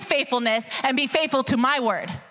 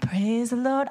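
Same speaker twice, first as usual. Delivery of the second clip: complacent praise; 2 semitones higher than usual. Retold or imitated. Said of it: "just stay in my comfort zone and be like".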